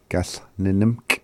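"Gas, nim, nimk" with the first nim reduced; copying his pronunciation. Retold or imitated. Teacher copies the way he says it, reduced first nim. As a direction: copy the recorded speaker's run-together "Gas, nim, nimk". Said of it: "I like the way he says it too".

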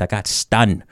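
Nuxalk-accented "stunned", ending in n for ng. Shown as a demonstration. Joking about the wasp sting, Nuxalk-accented "stunned". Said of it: "saying it in a New Hulk accent".

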